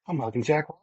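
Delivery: mildly giddy, voice lifting; starstruck excitement. Retold or imitated. Repeats starstruck thought, pitched up.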